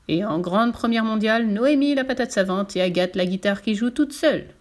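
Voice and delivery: showman's poster read-out; circus announcer. Acted. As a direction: announce each act like a ringmaster.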